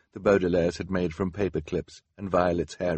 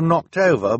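higher, louder, pleading delivery; earnest apology; 10 semitones higher, 8 dB louder than usual. A narrator's reading. Klaus apologizing to Hal about cabinets, earnest. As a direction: say it as an earnest admission.

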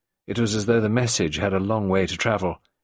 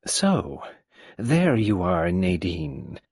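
put-on old tyrant mother; much slower than usual. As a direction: play the domineering old woman. Narrator voices old Mrs Boynton.

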